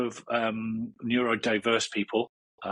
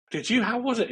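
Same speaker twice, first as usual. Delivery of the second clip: much higher, louder cheeky puppet voice; Jomo puppet voice; 12 semitones higher, 3 dB louder than usual. Acted. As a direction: pop up high as the playful puppet. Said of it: "And Jomo will say".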